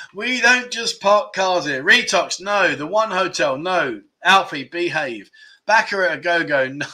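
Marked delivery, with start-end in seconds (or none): 0.1-1.8 drawn-out, raised-pitch repeat of the riddle; slow clue repeat. Acted. Quiz host repeating clue number two, slow and deliberate. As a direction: repeat it slowly, a little less forcefully.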